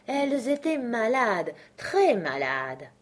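high voice dropping, slow and drawn out; insistent dormouse. A narrator's reading. Dormouse confirming the sisters' illness, slow and emphatic.

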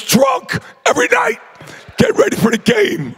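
hyped-up brag; excited boast. Real, not acted. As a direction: crow about it to the crowd. Boasting party story.

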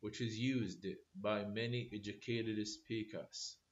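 very slow, word by word for note-taking; slow dictation. Shown as a demonstration. Teacher to students copying notes, slow dictation. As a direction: dictate it slowly so students can write. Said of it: "definition dictated".

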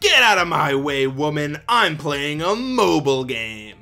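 lightly acted dismissive gamer husband; mock gruff husband. Ad husband shooing his wife away, mock macho. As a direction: brush her off, slowing on the last words.

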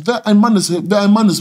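heated shouted challenge; berserk rage. Retold or imitated. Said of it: "Ich mein so".

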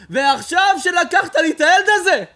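loud, high cry to God; loud high grieving cry; anguished cry. Acted. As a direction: cry out in grief to the Creator. Crying out to the Creator.

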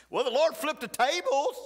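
high, loud triumphant cry; exultant shout. Real, not acted. Preacher shouting that the Lord turned things around, jubilant. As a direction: proclaim it like a preaching climax.

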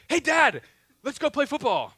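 lightly voiced eager little boy; a hint of a bouncy kid asking Dad. Son asks again.

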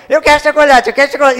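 put-on high, loud whining child demanding chocolate; whiny child. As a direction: wail it like a spoiled kid in a tantrum. Child throwing a tantrum for chocolate.

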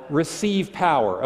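RECEIVE POWER said slowly and firmly; drawn-out stress on "Receive power"; emphatic demo. Shown as a demonstration. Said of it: "really give us loud".

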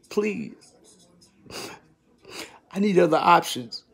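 soft whispered please. Real, not acted. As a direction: beg quietly under your breath. Pleading to himself.

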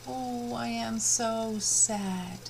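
slow, mock sad sigh. Shown as a demonstration. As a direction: drag it out like a sad child for the class. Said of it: "Vamos con sad".

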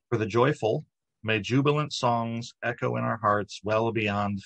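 measured, reverent blessing; prayer reading. Acted. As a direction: read it as a blessing, each opening phrase lifted and left hanging. Reads adapted blessing to open meditation.

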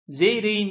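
Zeyrek'in said as "Zeyreyin", K softened to a glide; Zeyrek'in pronounced with no hard K; soft G for K. Shown as a demonstration. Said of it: "yumuşak G oluyor".

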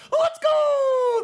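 triumphant shout. Real, not acted. Streamer yelling in victory after a kill. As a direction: scream it out, you just got the kill.

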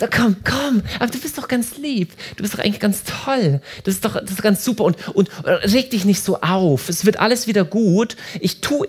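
a hint of a flattering appeaser calming someone down; placating rescuer. Speaker lightly voices the rescuer soothing an upset partner. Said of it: "Retter ... Beschwichtiger oder Schmeichler".

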